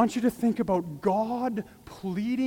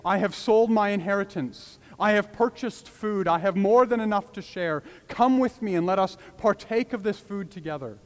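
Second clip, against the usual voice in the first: calling out to the crowd; 3 semitones higher, 4 dB louder than usual. Acted. The man calls out in the marketplace.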